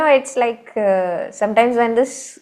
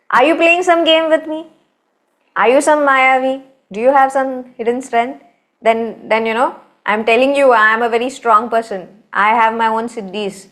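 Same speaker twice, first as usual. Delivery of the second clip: indignant challenge; 3 semitones higher than usual. Acted. Bhim confronts old monkey.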